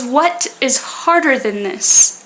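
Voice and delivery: slow, strained, jaw held tight; through clenched jaws. Retold or imitated. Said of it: "through clenched jaws".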